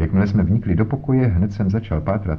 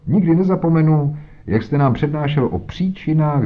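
mocking; 8 semitones higher than usual. Jones mocks Holmes' lecture.

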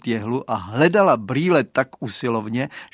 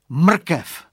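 higher and louder sudden idea; exclaiming; 5 semitones higher, 7 dB louder than usual. Acted. Boy exclaims his idea to crying friend, louder. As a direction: shout out the bright idea.

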